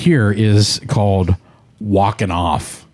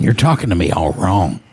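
mock Walken impression; 6 semitones lower than usual. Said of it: "better walking than I just did".

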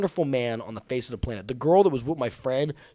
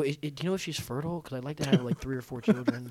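feigned earnest hopefulness; 4 dB quieter, faster than usual. Acted. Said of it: "so over the top".

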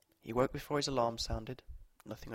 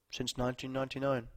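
put-on smooth old man; 2 semitones higher than usual. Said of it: "his voice unusually smooth for his age".

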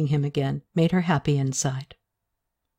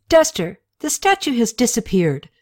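a queen losing patience, half-acted; exasperated; 7 semitones higher than usual.

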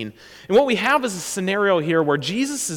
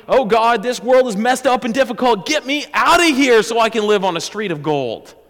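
mock whiny prayer; 4 semitones higher, 7 dB louder than usual. Mocking an escapist prayer.

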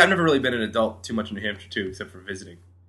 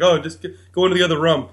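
mimicking New England accent; 4 semitones higher, 3 dB louder than usual. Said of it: "That's exactly how you would say it".

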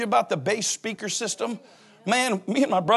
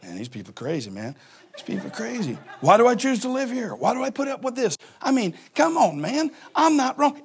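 a hint of muttered grumbling; sulking mutter; 2 semitones higher than usual. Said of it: "I walk in the backyard going".

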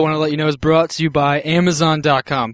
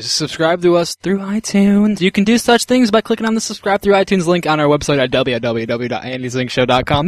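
put-on old radio show; 2 semitones higher than usual. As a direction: read it like a vintage radio ad. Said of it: "Doesn't it sound like he's on Old Time Radio?".

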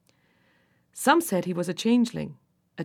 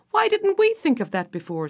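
delighted fairy king; 7 semitones higher than usual. A narrator's reading. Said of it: "said the King of the Fairies".

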